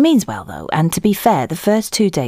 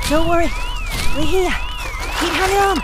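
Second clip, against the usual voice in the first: straining shout. Acted. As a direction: call out while digging. Rescuing someone from exploded house.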